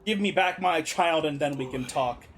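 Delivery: low, firm leader's resolve; lightly acted parent demanding a child back; resolute leader. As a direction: stand firm, voice kept low. Voices a parent standing firm.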